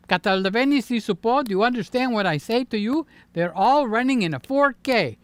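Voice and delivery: wired on coffee, racing along; too much caffeine. Real, not acted. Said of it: "Can you tell the caffeine is kicking in".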